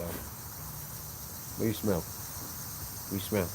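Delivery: slow soft whisper; whisper to dog. Real, not acted. Owner softly asking his sniffing dog, slow whisper. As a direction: breathe the question slowly, hushed.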